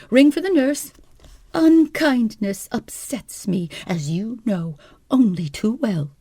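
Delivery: high, plaintive invalid voice; a nervous hypochondriac wife, complaining; fretful wife. Acted. Wife feigns illness.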